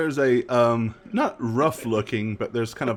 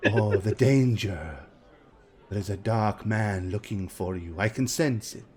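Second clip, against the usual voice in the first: fortune teller. Acted. Fortune teller answers, then ominous.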